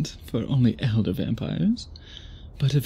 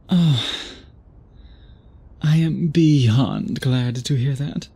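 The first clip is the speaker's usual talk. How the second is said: delighted; 5 dB louder, slower than usual. Acted. Delighted by an answer.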